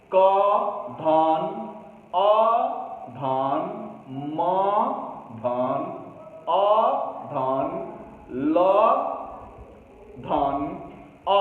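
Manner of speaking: क, अ, म, अ, ल, अ said one by one with धन between them; sounding out letters. Shown as a demonstration. Teacher to students, breaking कमल into sounds. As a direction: spell कमल out sound by sound, slowly. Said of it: "कमल शब्द है, उसमें".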